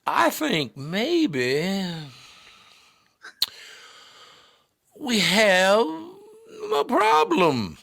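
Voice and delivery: very slow, very high Southern drawl with long pauses. Retold or imitated. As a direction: drag every word, pause long between them. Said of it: "they do these long pauses too".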